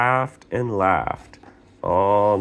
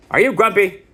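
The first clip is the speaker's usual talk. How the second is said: high little brother voice; 12 semitones higher, 6 dB louder, faster than usual. Acted. Little brother asks in story.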